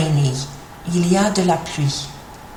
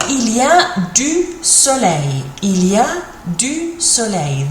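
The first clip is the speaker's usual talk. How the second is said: slow model phrase; 3 semitones higher than usual. Shown as a demonstration. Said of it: "So here we go".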